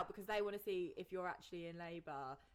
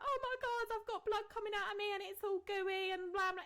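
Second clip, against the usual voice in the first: mock panic; 11 semitones higher than usual. Mock panicked call to hospital.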